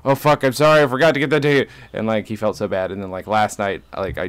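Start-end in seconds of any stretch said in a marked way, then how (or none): 0.1-1.7 apologetic friend. Retold or imitated. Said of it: "He's like".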